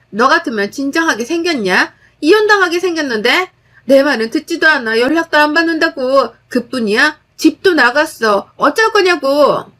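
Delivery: 높고 조금 크게 쏘아붙이기; 이혼 탓을 올케에게 돌리며 소리쳐; 따지는 시누이. Acted. 시누이가 악쓰며 따짐. (올케를 탓하며 쏘아붙이는 시누이)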